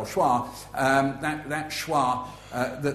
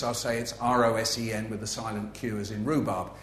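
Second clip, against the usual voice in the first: facetious; 3 semitones lower than usual. Shown as a demonstration. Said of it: "if I'm being facetious".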